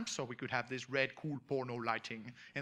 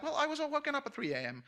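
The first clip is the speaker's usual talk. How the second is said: groggy retelling; 11 semitones higher, faster than usual. Retold or imitated. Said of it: "And I'm like".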